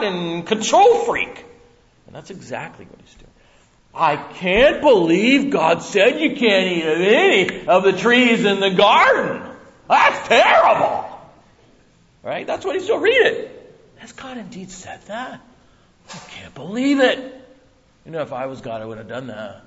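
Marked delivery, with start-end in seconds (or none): 3.9-11.1 high, loud, slow mock outrage; scandalised tempter. Serpent feigning shock to Eve, slow and loud. 14.0-19.6 soft, sly mock disbelief; insinuating serpent. Serpent sowing doubt in Eve, softly sly.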